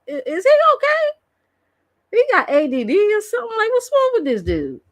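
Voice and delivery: high, fast, baffled questions; what is wrong with him; incredulous. Real, not acted. Mocking a streamer pulling food out the cabinet, high and fast. Mocking the guy's odd behaviour.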